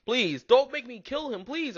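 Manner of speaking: high, slow, drawn-out plea; begging. A narrator's reading. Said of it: "I beg".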